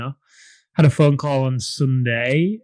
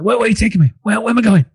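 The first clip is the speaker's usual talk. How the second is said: higher, mock-bewildered old nan; confused nan; 9 semitones higher, 5 dB louder, faster than usual. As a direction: play up the nan's confusion, pitched up. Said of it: "She's like".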